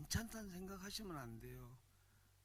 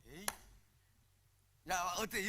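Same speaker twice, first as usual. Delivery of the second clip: ordinary talk, nothing marked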